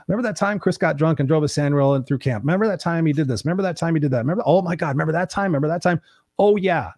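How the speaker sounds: lightly voiced rowdy mates; drunken buddies reminiscing. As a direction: play his party friends at the wake. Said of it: "I'm like".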